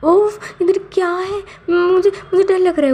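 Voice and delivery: high, frightened call from downstairs; a hammed-up frightened cry; scared yell. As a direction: yell up the stairs in mock fright. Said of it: "नीचे से चिल्लाता है".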